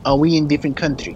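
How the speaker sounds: put-on slipped into a Russian accent. Player asking where they are, slipped into a Russian accent. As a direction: ask it in a Russian accent by accident. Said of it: "I don't know why I took Mikhail's accent".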